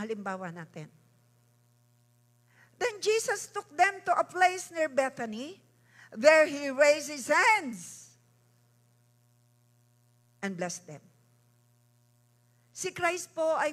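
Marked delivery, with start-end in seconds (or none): 2.8-11.0 louder, higher, slowing on the last words; stately, swelling Bible reading; dramatic scripture reading. Acted. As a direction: read it as a grand proclamation.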